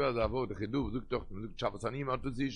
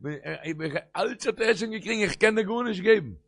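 high-pitched cry, building louder; impassioned refusal; 8 semitones higher, 6 dB louder than usual. Retold or imitated. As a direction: protest loudly that you can do nothing. Acting Isaac's refusal to Esau.

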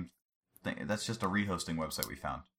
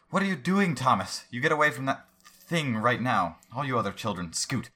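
much higher, louder shrill-mom scolding; snatch the kid back from the thing; alarmed mother yelling at children; 6 semitones higher, 5 dB louder than usual. Acted.

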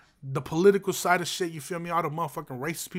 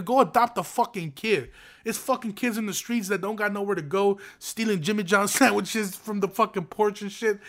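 higher, louder, angry outburst; heated rant; 5 semitones higher, 4 dB louder than usual. Real, not acted. Host snapping at men who want a say, angry. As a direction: let them have it, real heat. Ranting at men opposing abortion.

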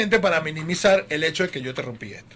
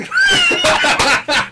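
loud laughing outburst; 7 dB louder than usual. Real, not acted. Laughing at his own story.

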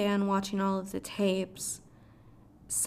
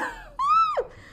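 very high-pitched gleeful squeal; excited squeal; 4 dB louder than usual. Retold or imitated. Fan dying over a favorite villain line, high excited squeal. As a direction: let out a piercing, delighted shriek.

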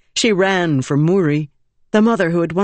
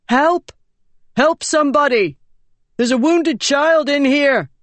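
calling for help; 10 semitones higher than usual. Acted. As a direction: shout to anyone nearby that a child is hurt. Calling for help for wounded child.

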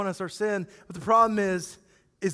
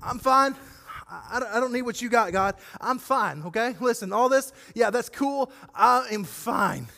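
brushing God off, lightly voiced; a hint of fake casual I'm fine; mock breezy denial. Congregant telling God, in mock denial, all is fine. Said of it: "how many times we try to do that with God".

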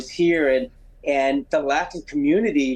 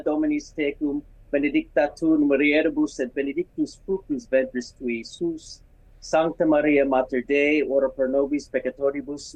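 measured, even-pitched Latin praying; Latin prayer recital. Real, not acted. Guest praying the Hail Mary for the host, measured recital. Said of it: "will you pray the Hail Mary just in Latin".

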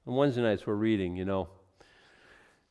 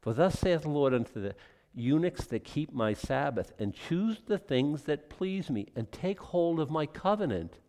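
reassuring God. Retold or imitated. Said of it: "God said".

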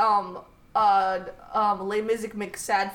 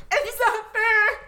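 imitating sobbing; 11 semitones higher, 4 dB louder, much slower than usual. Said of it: "weeping at Les Mis".

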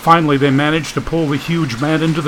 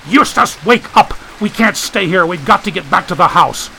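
shouting; 5 semitones higher than usual. Acted. Shaking unconscious friend.

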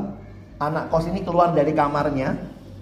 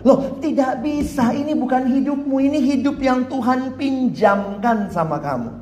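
emphatic rebuttal; 5 semitones higher than usual. Real, not acted. Preacher correcting the congregation, higher and firm. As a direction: push back hard on the boast. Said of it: "rebuts the boast".

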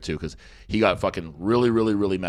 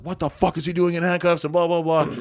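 higher-pitched mock indignation; retold dad's outrage; 7 semitones higher than usual. Dad flying out at cops over handcuffed son, mock outrage. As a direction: imitate an outraged dad without much extra volume.

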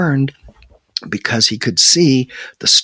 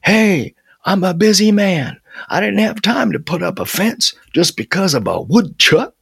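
defensive protest; 7 semitones higher than usual. A narrator's reading. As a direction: protest indignantly, calling it out. Running Harry shouts his excuse.

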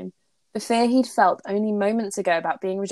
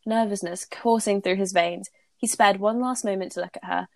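steady read-aloud narration; story reading. Acted. Reads fanfic aloud.

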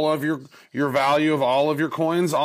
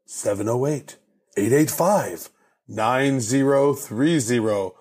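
monster truck ad. Shown as a demonstration. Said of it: "The secret number".

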